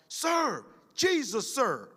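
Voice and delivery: high recruit sound-off, lightly voiced. Recruit answering instructor, high retold sound-off. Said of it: "sounded off".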